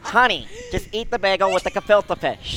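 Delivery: high-pitched nagging Jewish relative; hammed-up Jewish family voice; Jewish family impression. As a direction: fuss over food like a Jewish relative. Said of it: "This is everyone in my family".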